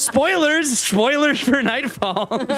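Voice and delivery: high, giggly voice-modded mermaid; sexy mermaid voice. Acted. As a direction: tease like a flirty sea siren. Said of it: "talking, like, as sexy mermaid woman".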